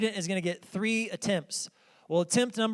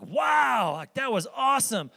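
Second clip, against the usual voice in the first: impressed coach; 4 semitones higher than usual. Retold or imitated. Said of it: "She was like".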